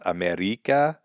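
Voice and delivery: "America" with a foreign long "ee" in "-rica"; mock mispronunciation. Showing a foreigner the mistake, mock mispronunciation. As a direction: say "America" as the wrong, foreign-sounding example.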